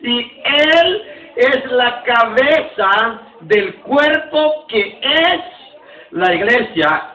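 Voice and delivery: slow, drawn-out recitation that rises on cuerpo; slow unison reading. Shown as a demonstration. Pastor leading the church through the verse, slowly in unison. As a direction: spell it out slowly for the congregation to follow. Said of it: "Diga conmigo el dieciocho".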